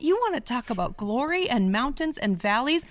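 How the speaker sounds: a fed-up prophet talking back to God; pissed-off prophet. Retold or imitated. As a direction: throw it back at God in exasperation. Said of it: "but pissed".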